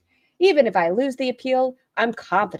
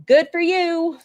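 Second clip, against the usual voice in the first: sarcastic quote; 8 semitones higher, 4 dB louder, slower than usual. Retold or imitated. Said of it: "pretty much was like".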